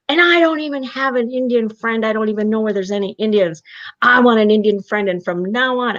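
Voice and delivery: high-pitched demands, rushed in the middle; replaying a bossy prayer to the Creator; demanding prayer. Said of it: "I go".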